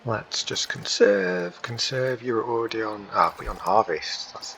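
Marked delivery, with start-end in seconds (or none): 0.0-2.2 high, slow put-on radio voice; mock race engineer. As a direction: drawl it like a team radio call. Drawling the command, far voice.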